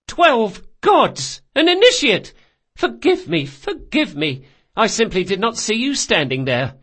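high, loud exclamations easing into apology; apologetic Carlo. Acted. Clumsy Carlo to the initiate, high alarmed apology. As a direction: plead to be forgiven, aghast.

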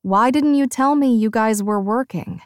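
talking with a mouthful; mouth full. Acted. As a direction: speak through a mouthful of pastry. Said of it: "I ask with my mouth full".

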